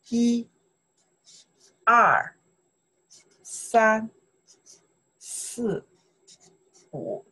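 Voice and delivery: 一, 二, 三, 四, 五 with long pauses between; counting demonstration. Shown as a demonstration. Teacher modelling counting for students, 一, 二, 三, 四, 五 spaced out. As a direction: count 一, 二, 三, 四, 五 out separately for learners. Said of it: "You say".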